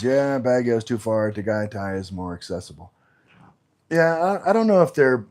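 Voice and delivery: talking while chewing gum; words around a wad of gum. Real, not acted. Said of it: "I'm gonna swallow that gum".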